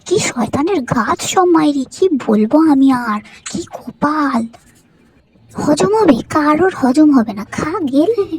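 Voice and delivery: loud, bitter complaining rant; angry rant. Acted. Daughter-in-law ranting at family over the best pieces, loud anger. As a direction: rage loudly about being cheated.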